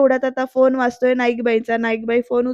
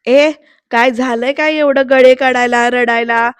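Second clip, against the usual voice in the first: louder, mock-cross elder's telling-off; scolding grandmother; 7 dB louder than usual. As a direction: retell granny barging in to scold, voice raised. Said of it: "असं म्हणत नानी ओरडत येतात". (ओरडणाऱ्या नानीची नक्कल)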